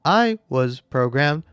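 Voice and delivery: lightly voiced robot apologizing; a hint of a robot reading its code. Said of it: "when you do a robot voice bit".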